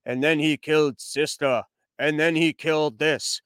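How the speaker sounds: lightly voiced, slow-paced chief telling a tale; plodding storyteller impression. Host mocking a film's pacing as a chief's slow, plodding recital. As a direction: draw each deed out in a measured, repetitive recital. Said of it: "pacing of an Indian chief describing to you".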